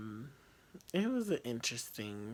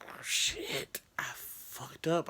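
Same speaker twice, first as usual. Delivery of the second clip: panicked whisper; 2 semitones higher, much slower than usual. Retold or imitated. Panicked inner thought retold.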